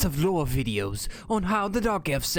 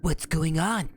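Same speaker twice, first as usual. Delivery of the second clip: dark elf voice; slower than usual. Acted. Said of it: "Time to get into voice actor mode".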